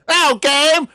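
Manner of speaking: high loud gleeful yell; high cry of savage triumph; triumphant shout. Acted. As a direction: roar it as the blow lands. Stolas striking with bolt.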